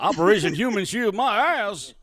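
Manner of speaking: sarcastic. Acted. Mock announcing the rogue's plan.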